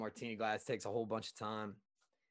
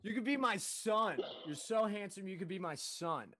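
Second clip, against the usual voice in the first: incredulous quoting; 8 semitones higher than usual. Retold or imitated. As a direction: echo her words in comic disbelief. Repeats customer's line in disbelief.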